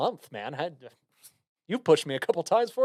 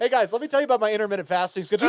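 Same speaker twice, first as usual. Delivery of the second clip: mock bragging; 4 semitones higher, 4 dB louder, much faster than usual. Mock bragging about diet.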